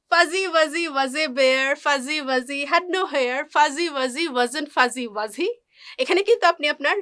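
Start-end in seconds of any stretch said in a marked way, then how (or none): 0.1-5.5 "Fuzzy Wuzzy" slow and connected, every Z clearly buzzed; slow tongue twister, voicing the Z in "fuzzy"; measured chant stressing the Zs in "Fuzzy Wuzzy"; Z sound drill. Shown as a demonstration. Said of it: "যা সাউন্ডটা".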